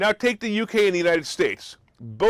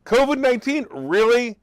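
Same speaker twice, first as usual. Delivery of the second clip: "covid nineteen" jumps much higher in disbelief; incredulous; 5 semitones higher than usual. Real, not acted. Vlogger mocking the State Department's covid warning, incredulous. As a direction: echo it back as if it's absurd.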